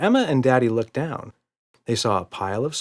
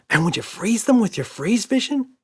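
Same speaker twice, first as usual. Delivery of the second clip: put-on little girl voice; 12 semitones higher, 4 dB louder than usual. A narrator's reading. Emma voiced.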